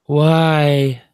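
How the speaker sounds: high, loud wounded "why"; hurt cat voice. Retold or imitated. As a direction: voice the offended cat. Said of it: "looked at me like".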